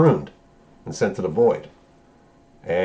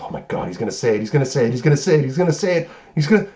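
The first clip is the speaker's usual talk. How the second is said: repeated phrase climbing steadily higher; building anticipation; 5 semitones higher, much faster than usual. Retold or imitated. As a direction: start at normal pitch and build into giddy mock excitement. Retold Deadpool awaiting the catchphrase.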